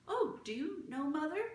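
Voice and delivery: put-on high, bright girl's question; surprised Martha. Martha asks the gentleman about Mother, surprised.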